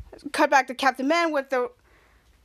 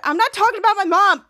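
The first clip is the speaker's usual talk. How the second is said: higher, louder exasperated line; exasperated shout; 5 semitones higher, 6 dB louder than usual. Retold or imitated. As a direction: snap back, exasperated. Kid Danger exasperated.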